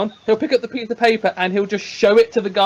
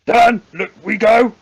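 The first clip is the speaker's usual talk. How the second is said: proud call; 5 dB louder, slower than usual. Acted. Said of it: "looks back at the party and goes".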